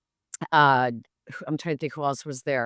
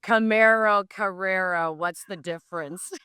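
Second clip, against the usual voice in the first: clueless Tom; 3 semitones higher than usual. Retold or imitated. Tom's clueless reply.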